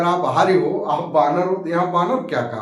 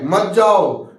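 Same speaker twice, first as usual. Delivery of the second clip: louder mock rebuke; acted-out warning, pushed louder; retold scolding; 5 dB louder, much slower than usual. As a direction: tell them off, in imitation. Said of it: "हड़काए चमकाए".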